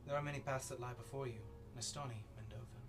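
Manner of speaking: whispered then rising ominous voice; whisper, then swell with menace; eldritch horror. Acted. Voice from the flames speaks.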